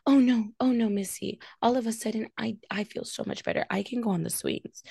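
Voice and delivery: lightly voiced child suddenly cured; imitating a kid who feels better; mock sick kid. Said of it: "speaking to my kids".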